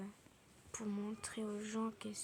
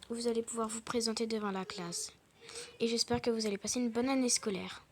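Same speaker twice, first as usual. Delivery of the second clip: louder, projecting teacher voice; school teacher; 8 dB louder than usual. Acted. Teacher welcoming the new pupil in a loud, formal voice.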